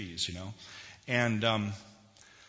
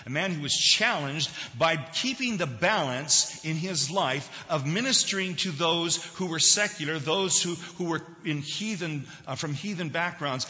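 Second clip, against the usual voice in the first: raised, forceful sermon voice; emphatic preaching; 6 semitones higher, 6 dB louder than usual. Real, not acted. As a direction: press the point on the congregation.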